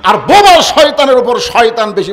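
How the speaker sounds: loud, impassioned proclamation; full-force preaching. Acted. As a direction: drive the moral home at a shout.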